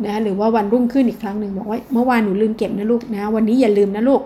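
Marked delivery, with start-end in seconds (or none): 1.9-4.2 gentle repeat. Shown as a demonstration. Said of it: "พูดด้วยน้ำเสียงทวนอีกครั้งหนึ่งไง".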